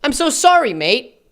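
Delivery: put-on half-hearted British accent, "sorry" pitched high; British accent attempt. YouTuber reading out Jesse's reply, abandoned British accent. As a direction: start a mock British apology, high then dropping. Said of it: "I'm not doing an accent".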